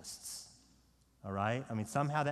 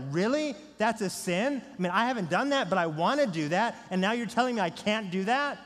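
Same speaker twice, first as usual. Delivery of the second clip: higher, louder incredulous protest; really annoyed; 5 semitones higher, 5 dB louder than usual. Retold or imitated. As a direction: imitate an annoyed young convert objecting. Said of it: "being really annoyed".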